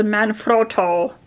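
name said in a lightly put-on voice. Real, not acted. Showing viewers her tripod, brand name in a put-on voice. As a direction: slip into a slight silly voice for the name. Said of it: "why I said it in that voice".

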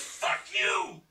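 high, hammed-up yelling rant; mock yell. Scotty yelling at the stoned host that the world ended. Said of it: "Scotty goes".

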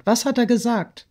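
high, urgent asking; insistent question. A narrator's reading. Friend asking what the lover said, insistent. Sonja repeats her question, pressing.

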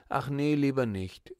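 put-on alarmed little girl refusing; startled refusal. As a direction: back out quickly in fright. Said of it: "rief die Kleine erschrocken".

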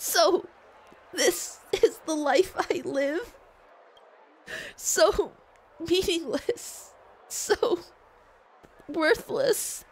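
high, slow, halting mock sobbing; acted crying. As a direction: break up the words as if in tears. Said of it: "I'm assuming she's crying".

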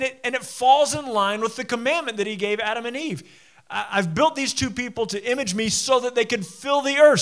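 emphatic sermon building in force; preaching. Real, not acted. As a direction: preach with rising conviction to a loud peak.

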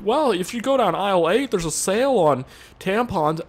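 lightly voiced chirpy clerk; helpful clerk. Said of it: "that irritating person at Walmart".

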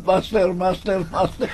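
slow repeated master; echo effect. Shown as a demonstration. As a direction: let master echo slowly. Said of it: "Basta tayo susunod".

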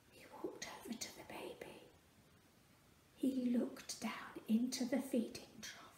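hushed, awed whisper. A narrator's reading. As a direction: whisper softly over the baby. Whispered nativity narration.

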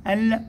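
ال with a clear held L; sounded moon lam. Shown as a demonstration. Teacher identifying the moon letter, sounded lam. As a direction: end ال on a lingering, fully voiced L. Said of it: "هذه لام قمرية".

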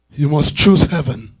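ordinary talk, nothing marked

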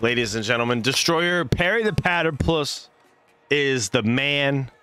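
lively esports play-by-play, rising on big plays; play-by-play casting. Acted. Streamer casting a match to viewers, lively play-by-play. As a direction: call the match like a hyped caster.

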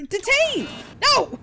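high loud bark of detain!; shouted stamp. Acted. Inspector yelling detain! at a traveler. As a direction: slam the word down like a gavel.

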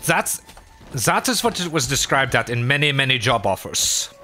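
quote-unquote German accent, corrected from French. Shown as a demonstration. Streamer correcting the French slip, mock German accent. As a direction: retake it in a stock German accent. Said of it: "Oh, that was French".

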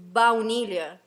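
baunilha said the Portuguese way; slow Portuguese baunilha. Shown as a demonstration. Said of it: "en portugués es".

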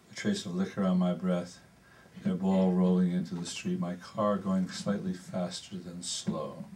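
measured prose poem reading; poetry reading. Acted. Reads prose poem aloud.

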